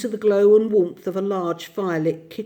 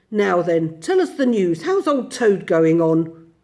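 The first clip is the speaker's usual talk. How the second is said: put-on louder, cheerful old host; hearty; 5 dB louder than usual. Badger by the fire asking his guests for news heartily. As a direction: ask for news like a jolly host. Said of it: "the Badger said heartily".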